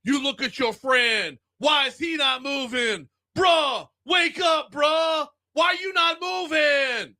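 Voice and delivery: high, crying mock shout at a friend; panicked friend. Friend in the ad panicking, hammed-up crying shout. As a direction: beg a friend to wake up. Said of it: "doing the voice".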